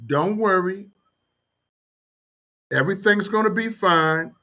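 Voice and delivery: calm voice. Acted. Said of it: "a very calm voice gets on".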